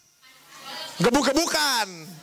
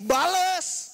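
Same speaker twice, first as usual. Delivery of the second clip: higher, drawn-out command; urging retaliation; 5 semitones higher than usual. Retold or imitated. Big brother teaching younger one to hit back, urging command. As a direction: push the word out like an order.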